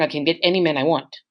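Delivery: a quick whispered boast; whispered taunt. Retold or imitated. Wife taunting her husband that she could leave, quick whispered boast. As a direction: hiss the threat under her breath, fast. Wife's taunting threat, retold.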